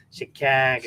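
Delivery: Chicago with a flattened Midwestern "a", as in "cag"; demonstrating the Midwestern "Chicago" with a fronted vowel; Midwestern accent. Shown as a demonstration. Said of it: "we sound very nasally".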